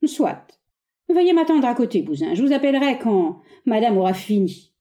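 lofty and dismissive; disdainful condescension. Acted. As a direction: talk down to her. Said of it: "avec une condescendance dédaigneuse".

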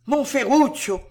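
high, mildly alarmed grandmother; understated startled cry of concern; stunned, worried exclamation. A narrator's reading. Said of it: "s'exclama la vieille stupéfaite et inquiète".

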